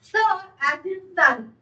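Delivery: "Sir" with the s of "sun"; match the first sound of "Sir" to "sun". Shown as a demonstration. Teacher explains the cedilla to students, "Sir" with an s sound. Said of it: "you have to pronounce it sir".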